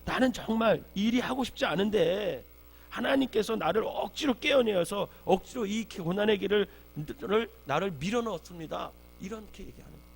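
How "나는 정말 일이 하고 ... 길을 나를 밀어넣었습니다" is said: anguished complaint. Acted. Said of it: "상황이 너무 힘드니까 예레미야는".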